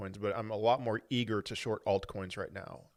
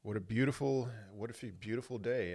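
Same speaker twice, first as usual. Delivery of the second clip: dry, sarcastic tone; 5 dB quieter than usual. Acted. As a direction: say it with mock cheer. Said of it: "I'm being totally sarcastic when I say that".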